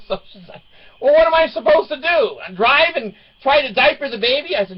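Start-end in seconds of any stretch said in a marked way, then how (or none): 1.0-4.6 put-on high, loud teen protest; imitated exasperated daughter. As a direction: mimic a flustered daughter, pitched way up.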